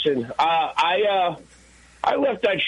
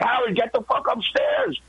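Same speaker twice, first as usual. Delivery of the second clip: higher pushed command; urgent order; 8 semitones higher than usual. Retold or imitated. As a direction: hurry him upstairs. Ordering Howard upstairs in danger.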